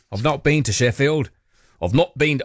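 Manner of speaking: a light northern English lilt; faint British accent, half unawares. Pretend. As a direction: slip into a touch of British accent. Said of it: "slipped into a British accent".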